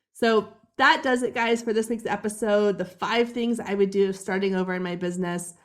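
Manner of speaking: gravelly, hoarse throat. Real, not acted. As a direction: talk through a frog in the throat. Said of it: "I've got this gravelly frog in my throat".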